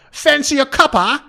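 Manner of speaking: quick high Cockney quip; brief Cockney accent demo. Shown as a demonstration. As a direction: toss it off like a London cabbie. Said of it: "the kind of accent that would go like".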